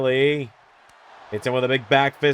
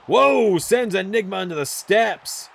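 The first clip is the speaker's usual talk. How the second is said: surprised; 8 semitones higher, slower than usual. Real, not acted. Sudden move in the match.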